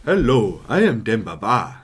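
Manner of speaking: loud, bouncing African accent. Shown as a demonstration. Host introduces himself as a footballer, African accent. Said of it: "African accent".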